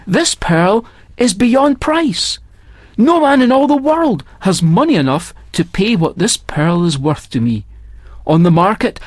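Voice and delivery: lightly voiced old Indian pearl diver; old pearl diver, proud. Old diver refuses to sell pearl.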